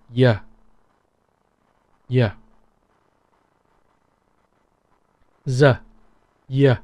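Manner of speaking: Southern "yeah" for the letter; Southern Y sound. Shown as a demonstration. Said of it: "pronounce it in Y".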